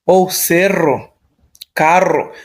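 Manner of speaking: cerro and carro with a trilled rr; strong trilled rr; rolled rr. Shown as a demonstration. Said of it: "estremecida no doble R".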